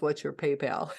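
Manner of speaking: quoting her through real laughter; can't hold back a laugh on the words. Real, not acted. Quoting the scammer's question to viewers, laughing.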